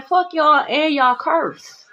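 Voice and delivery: slow contemptuous dismissal; dismissive. Real, not acted. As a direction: drag it out in contempt. Cursing off enemies.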